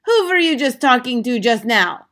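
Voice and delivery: loud, high witch interrogation; snapped. A narrator's reading. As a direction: demand an answer crossly. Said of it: "snapped the Grand High Witch".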